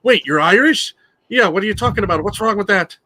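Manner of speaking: hammed-up incredulous quote; mock characters. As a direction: act out the Family Guy bit. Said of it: "And the characters go".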